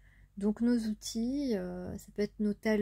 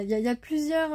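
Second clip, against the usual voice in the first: normal talking voice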